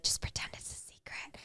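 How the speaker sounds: hushed whisper, voice dropped away. Retold or imitated. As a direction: breathe it like a conspiratorial secret. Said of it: "Zane whispers to me".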